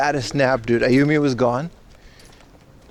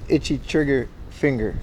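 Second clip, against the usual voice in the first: careful, separated words; tongue-twister caution, words spaced out; very slowly; 4 dB quieter than usual. Real, not acted. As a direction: say it slowly to avoid tripping. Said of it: "had to say that very slowly".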